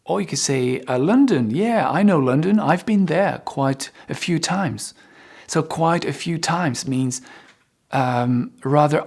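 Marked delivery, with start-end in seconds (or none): 1.0-4.9 excited example. Shown as a demonstration. Acted enthusiastic example speaker.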